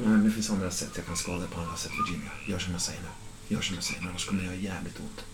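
low, hushed menace; quiet threat. Acted. Kidnapper warning Virginia to obey, low and hushed.

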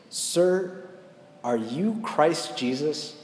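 lightly voiced boy through tears, slow at first; understated weeping child's question; a touch of tearful boy. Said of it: "he's just crying".

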